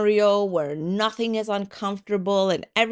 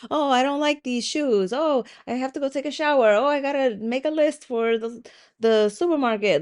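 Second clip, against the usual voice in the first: lightly voiced chattering inner mind, higher; chatty mind voice; 4 semitones higher, faster than usual. The chatty Cathy in your head, light higher chatter. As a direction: rattle off idle thoughts like a busy inner voice. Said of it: "the chatty Cathy that is like".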